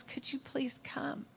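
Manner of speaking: slow, whispered plea; pleading whisper. Retold or imitated. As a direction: beg softly, barely voiced. Desperate father begging Jesus.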